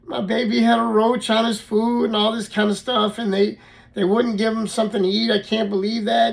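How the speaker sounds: half-hearted imitation of a sobbing mom; imitating crying mom. Mom hearing about the roach, mock tearful wail. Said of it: "she started crying and said".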